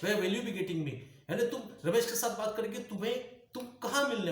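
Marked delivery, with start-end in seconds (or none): 0.0-0.9 asked again through a light laugh at normal level; laughing question to Ramesh. Shown as a demonstration. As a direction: ask it again with a chuckle. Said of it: "देखो रमेश".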